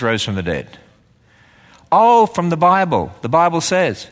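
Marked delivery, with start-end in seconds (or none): 1.9-4.1 mock obvious answer. Mock answer to own question.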